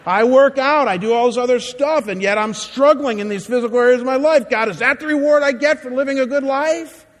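a hurt protest that keeps climbing; aggrieved complaint. Retold or imitated. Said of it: "You say".

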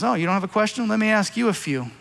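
understated sarcastic challenge; biting sarcasm. Acted. Preacher voicing God to Job, lightly biting sarcasm. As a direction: turn the question back with mild sarcasm. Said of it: "in biting sarcasm".

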